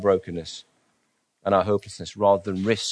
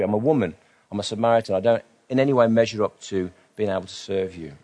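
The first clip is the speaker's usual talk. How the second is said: mildly incredulous, pitch lifting on the protests; lightly acted disbelief, protesting unworthiness; 2 semitones higher than usual. Samaritan woman protesting to Jesus, mildly incredulous. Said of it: "The woman's incredulous".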